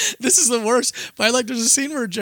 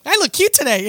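mock preening; 7 semitones higher, 4 dB louder than usual. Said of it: "And he'll be like".

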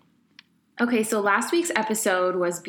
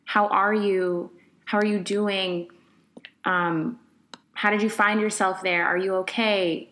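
gentle concern. Shown as a demonstration. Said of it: "it's so easy just to say".

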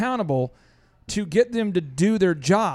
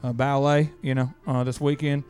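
put-on hillbilly accent; 2 semitones lower than usual. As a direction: play a lazy rural maintenance guy with a hillbilly accent. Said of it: "I'm gonna sound like a hillbilly".

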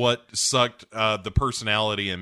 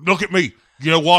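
high, loud, urgent calling out; Bond yelling; 8 semitones higher, 13 dB louder, faster than usual. Acted. Bond begging Madeline not to watch, shouted. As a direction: shout to pull her attention to you. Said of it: "Bond starts screaming".

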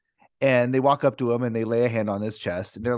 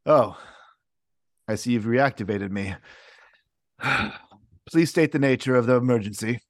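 calm robotic assistant. Acted.

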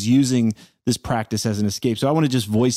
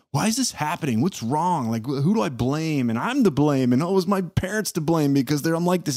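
higher, mock-fretful inner voice; anxious self-questioning; 5 semitones higher than usual. Meditator mimicking the cycle of suffering, fretful and higher. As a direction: imitate a worried mind hunting for blame.

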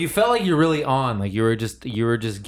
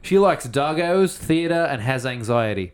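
put-on Australian accent. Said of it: "should I say this in a, an Australian accent?".

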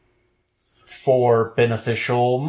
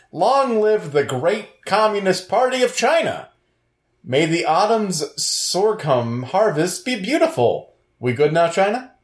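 north korean newsreader; 6 semitones higher than usual. Acted. Reading mock Chinese statement.

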